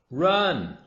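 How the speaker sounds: high, loud urgent monkey yell; monkey warning the children, shouting. Acted. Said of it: "Mugglewump shouted to the children".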